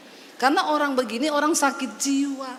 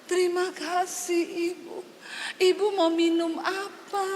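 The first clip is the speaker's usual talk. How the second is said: softer, gently offering a drink; sweet hostess; 3 semitones higher, 4 dB quieter than usual. Retold or imitated. Woman after prayer kindly offering the pastor "minum apa", soft. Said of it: "habis didoakan".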